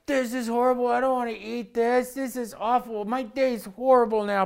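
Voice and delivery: put-on high, whining kid complaint; whiny kid. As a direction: mimic a sulky child who hates dinner. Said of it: "they would look at me like".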